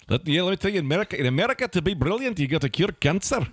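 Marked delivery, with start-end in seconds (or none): 1.7-3.5 put-on Scottish accent. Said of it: "It slips into Australian".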